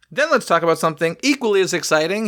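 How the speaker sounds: mock excitement, lightly done; facetious. Host introducing parking lot tram news, facetious. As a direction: feign a little excitement for dull news. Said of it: "he says facetiously".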